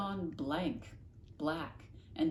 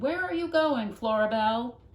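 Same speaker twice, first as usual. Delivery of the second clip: louder, higher mother calling out; mother calling after Flora; 5 semitones higher, 10 dB louder than usual. Acted. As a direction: call across the yard to your daughter. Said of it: "Her mother called to her".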